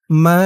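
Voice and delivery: "মা" held very long; long, sustained recited "মা"; three-alif stretch. Shown as a demonstration. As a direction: draw out the aa of "মা" for three beats. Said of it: "মা তিন আলিফ টান".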